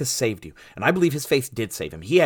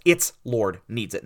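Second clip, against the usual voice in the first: slow, deliberate weight on "Its"; stress on ITS; 3 semitones lower than usual. Shown as a demonstration. Preacher correcting a translation, stress on "Its". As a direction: set "Its" apart, then "Lord needs it". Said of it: "But it's not the Lord".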